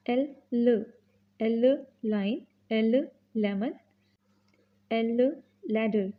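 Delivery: ल short, slow; l sound drill. Shown as a demonstration. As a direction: sound ल then the word slowly. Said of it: "phonics drill".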